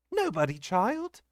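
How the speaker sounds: high, slow, tense brush-off; mildly cross nurse silencing the child; almost angrily. A narrator's reading. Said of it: "almost angrily".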